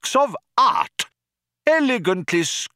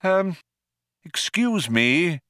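higher, hesitant and slow; polite interruption; 9 semitones higher, slower than usual. A narrator's reading. Old man interrupts the diners, polite hesitant voice. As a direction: politely try to cut in. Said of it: "coughed politely".

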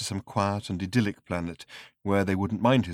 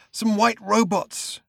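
hoarse whisper; 10 semitones higher, 3 dB louder, slower than usual. Acted. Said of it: "whispered the man hoarsely".

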